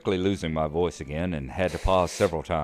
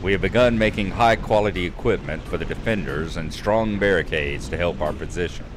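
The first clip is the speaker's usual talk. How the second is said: louder, declaiming storybook read of the quest; quest text reading; 4 dB louder than usual. Acted. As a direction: read the quest dialogue out like a narrator. Reads quest text aloud.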